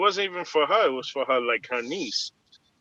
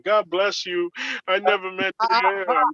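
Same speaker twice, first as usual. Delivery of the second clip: higher-pitched mock tearful plea; imitated crying; 4 semitones higher, slower than usual. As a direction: imitate a tearful apology, dragging out the end. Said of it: "And then she started crying".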